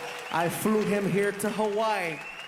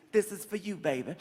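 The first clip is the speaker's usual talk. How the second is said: seductive offer; 4 semitones lower, 4 dB quieter than usual. Retold or imitated. Sultry delivery line.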